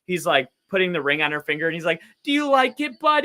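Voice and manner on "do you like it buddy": imitating high-pitched, loud pet talk; talking to a dog. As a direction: mimic someone gushing to a dog. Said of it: "sound like he's talking to his dog".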